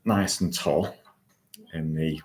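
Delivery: measured guiding voice with long pauses; guided meditation. Acted. Host settles online listeners into their chairs, guided meditation. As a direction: guide listeners into posture, phrase by phrase.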